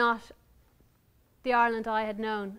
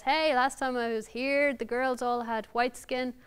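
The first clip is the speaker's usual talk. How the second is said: put-on American accent. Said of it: "I don't know why I'm giving him an American accent".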